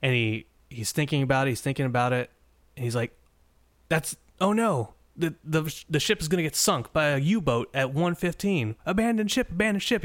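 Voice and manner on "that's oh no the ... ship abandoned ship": high-pitched mock panic, climbing to the alarm call; hammed-up alarm, pitch rising sharply; freaking out. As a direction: act out a dawning panic, stumbling into a warning. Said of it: "He freaks out".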